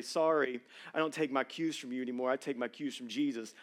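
a hint of a smart mouth to a cop at a speeding stop. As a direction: sass the officer. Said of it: "for your smart mouth".

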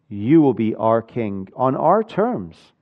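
slow, deliberate, weight on each "our"; stress on our. Shown as a demonstration. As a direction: lean firmly on "our" both times. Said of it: "when you emphasize the word".

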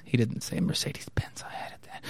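whispered quick confession; hushed aside. Real, not acted. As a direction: drop to a whisper to admit the ad-lib. Confessing an aside about his ad-lib.

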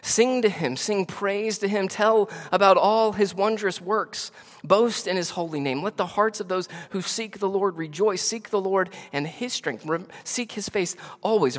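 ringing call to praise; preaching scripture reading. Acted. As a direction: declare the psalm out loud. Reads a psalm aloud with force.

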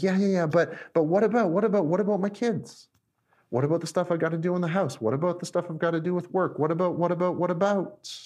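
quick, repetitive mock protests; a touch of fretful excuse-making, words tumbling out; worried objecting. Listeners making excuses to Jesus, mildly fretful objecting. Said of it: "but we're like".

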